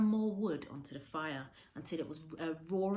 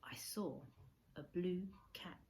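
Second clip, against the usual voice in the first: whispered awe; 6 dB quieter, slower than usual. A narrator's reading. Narrator's breathless recognition.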